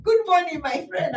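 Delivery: put-on light teasing African movie accent greeting a lion; mock African accent. Guest teasing the host's jungle story, in a light mock African accent. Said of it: "you made it sound like".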